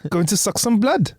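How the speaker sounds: light mock Welsh accent on a leech; a hint of a Welsh lilt. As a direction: play a cheery Welsh leech. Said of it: "leeches have Welsh accents".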